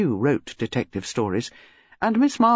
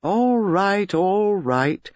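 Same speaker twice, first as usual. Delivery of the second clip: easy, placating concession; mildly soothing, drawn-out agreement; pacifying; 4 semitones higher, much slower than usual. A narrator's reading. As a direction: give in to calm them down. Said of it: "said Mark Gaskell pacifically".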